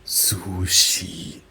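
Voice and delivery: "Sushi" stretched in a German accent; German-accented "Sushi" with long vowels; German-style pronunciation. Shown as a demonstration. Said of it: "German speakers would say".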